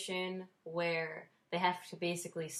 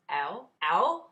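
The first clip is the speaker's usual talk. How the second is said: "ow" growing louder, second one swooping up; acted cry of pain; 8 dB louder than usual. Patient breaking silence in recovery, pained ow. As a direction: let the pain build past keeping quiet. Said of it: "the pain exceeds the threshold of being quiet".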